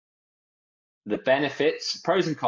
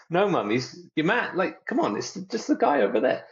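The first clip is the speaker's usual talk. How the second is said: exasperated son; 7 semitones higher than usual. Retold or imitated. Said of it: "It's like".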